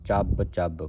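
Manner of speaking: ਚੱਬ ਚੱਬ with a doubled, firmly closed b; tight, geminated. Shown as a demonstration. Teacher says it must not be loose, tight ਚੱਬ ਚੱਬ. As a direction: press hard into the "bb" of each ਚੱਬ. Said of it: "ਇਹ ਕੱਸ ਕੇ ਬੋਲਣਾ ਹੈ".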